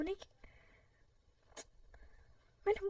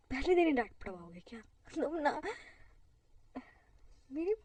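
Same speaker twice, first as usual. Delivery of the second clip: scolding; 5 dB louder than usual. Acted.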